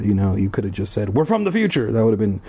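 snarky paraphrase; mock the line; mocking aside. Real, not acted. Reader mocking the dialogue.

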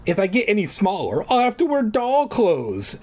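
high, wailing little voice; a lightly voiced whiny wail; Vern Troyer impression. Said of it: "she wailed, imitating Vern Troyer".

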